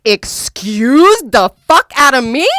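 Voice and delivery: screamed high and loud at him; retold furious yelling. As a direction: tear into him, outraged. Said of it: "And so I started going off".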